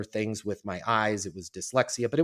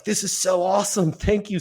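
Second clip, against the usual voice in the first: put-on higher, louder burst of kid gratitude; re-enacting delighted thanks; retold excitement; 7 semitones higher, 4 dB louder than usual. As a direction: gush like a thrilled kid. Retelling his delighted thanks as a boy.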